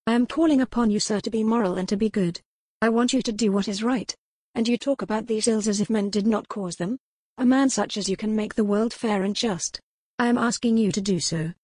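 Corwin urging. Acted. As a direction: appeal to his conscience, pushing hard. Corwin urges him to be good.

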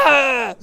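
loud, high mock yell of pain; imitated scream. Little brother screaming as his nipple is twisted, imitated yell. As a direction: yelp like a tormented little brother. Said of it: "og han skreg".

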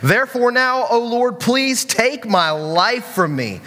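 slow, mildly aggrieved plea; mock-upset pleading. Preacher voicing angry Jonah praying to die, mildly upset. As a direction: drag out an upset prayer, a touch dramatic. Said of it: "This is how mad and how upset he is".

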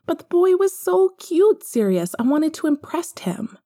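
put-on worried little boy; young Harry. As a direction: speak as a small child fumbling the words. Narrator voices young Harry.

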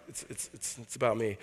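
sly hushed admission; mock whispered boast; whispered confession. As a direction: whisper the stammer, then admit it's about me. Braggart admits the truth.

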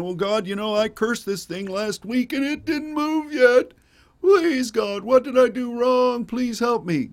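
high-pitched hammed-up whine, swelling to a loud plea; mock whining. Preacher imitating someone complaining to God in prayer, mock whining. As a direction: whine it like a pleading crybaby, way up high. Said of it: "God doesn't like whiners".

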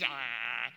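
acted wordless groan; exasperated groan. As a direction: groan as if fed up with the bickering. Overwhelmed by the imitated argument.

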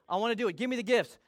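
"Give me the gifts." still keen but at a normal level; toned-down eagerness. Retold or imitated. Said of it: "Calm down".

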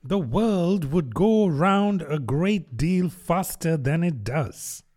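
slow hoarse growl fading out. Acted. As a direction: growl it hoarsely, dying away. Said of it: "in a hoarse growl".

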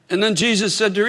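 ordinary delivery

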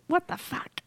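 a light Jersey driver impression; Jersey what the fuck impression. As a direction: imitate her road-rage Jersey curse.

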